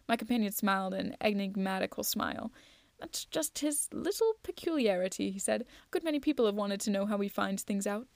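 measured audiobook reading with lively dialogue; lightly acted storytelling; story narration. A narrator's reading. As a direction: read the detective tale aloud. Reads a detective story aloud.

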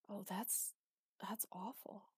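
breathy, hushed and choking on the words; throat tight, barely getting it out; choked up. A narrator's reading. Throat tightens at sad story.

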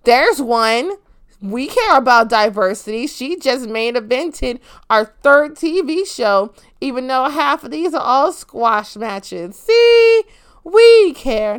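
hammed-up mock self-congratulation, jumping high and loud; sarcastic mimic of a promoter bragging; mocking Brandy. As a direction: parody her smug claim of caring. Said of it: "and said".

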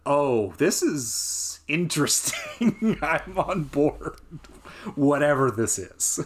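slow, laughing, delighted curiosity; amused laughing. Retold or imitated. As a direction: chuckle through it, slowly, intrigued. Intrigued reaction to movie opening.

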